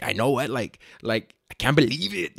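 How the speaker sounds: lightly mocked Mexican accent; derpy Mexican accent. Mimicking a Marvel character, derpy Mexican accent. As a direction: imitate a goofy Mexican accent. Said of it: "the derpy Mexican accent".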